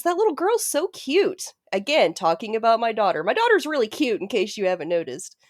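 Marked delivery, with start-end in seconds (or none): 0.0-1.5 high, slow doting voice; gushing old woman. Retold or imitated. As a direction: dote on the little girl, drawn out. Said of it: "she says".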